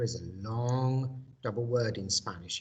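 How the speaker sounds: normal talking voice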